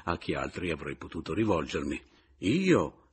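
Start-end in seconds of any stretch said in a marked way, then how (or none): 2.4-3.1 esclamazione alta e ingenua, sorpresa; stupito. A narrator's reading. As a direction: cade dalle nuvole. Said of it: "esclamò candido e stupito". (candido e stupito)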